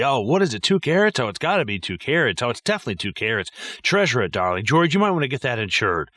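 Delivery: a hint of a gushing snobby mother, pitch jumping on carats; lightly mock the mom fawning over the ring; imitating the mother cooing over a diamond. Mocking his mom over the ring.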